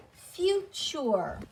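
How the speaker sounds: "future" in two syllables, FYOO-chur; pronunciation demo. Shown as a demonstration. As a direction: say "future" with a long u, then chur. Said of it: "So we would pronounce that word".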